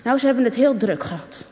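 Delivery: ordinary delivery, nothing marked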